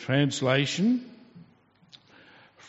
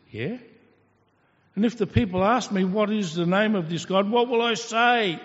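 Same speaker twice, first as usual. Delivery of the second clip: Moses questioning; 5 semitones higher, faster than usual. Acted. Moses answers God, quoted.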